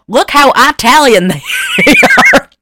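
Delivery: high, loud mob-stereotype voice breaking into laughter; mock mobster cow. Friend retells the Jersey cows gawking, laughing mob voice. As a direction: ham up an Italian mob cow.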